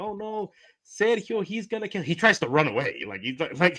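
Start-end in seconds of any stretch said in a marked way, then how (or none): 0.0-2.0 mock very high sobbing, crying wail. Retelling how the girls reacted to a man's threat: imitating the girls crying. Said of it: "the girls are like crying".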